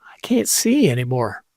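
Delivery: breathy whisper, no voice. Real, not acted. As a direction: whisper it under your breath.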